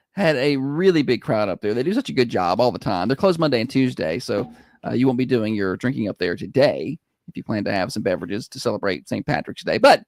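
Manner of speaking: upbeat radio sponsor read; radio host plugs the brewery. Acted. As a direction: sell the brewery to listeners.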